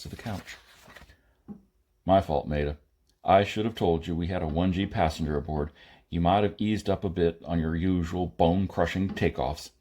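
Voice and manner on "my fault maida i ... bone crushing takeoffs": a touch lower, firm and blunt; lightly voiced stern pilot; gruff man voice. Kirk voiced in narration.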